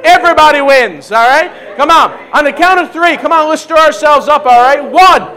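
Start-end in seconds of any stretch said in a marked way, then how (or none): 4.8-5.3 high, loud hype-up shouting; rally the crowd toward a big cheer; rousing countdown. Real, not acted. Preacher on the count of three, rousing shout.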